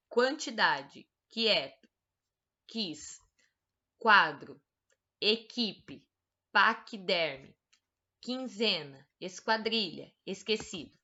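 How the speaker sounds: slow, careful word-by-word reading; reading a word list. Shown as a demonstration. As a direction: read each word out clearly to the class. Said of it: "leia as palavras do quadro". (leitura pausada de lista de palavras)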